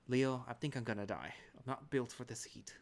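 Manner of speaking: a touch of overdramatic grumbling; mild whiny complaint. Acted. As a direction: grumble about suffering in the heat. Complaining aloud of the heat.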